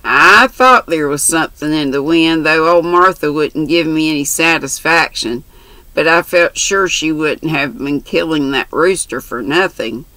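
lightly voiced brash country girl; chatty, bold young girl. Mary's dialogue voiced.

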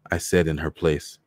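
ordinary delivery, nothing marked

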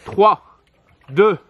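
shouted race-start countdown; loud countdown. Real, not acted. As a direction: call the start loudly.

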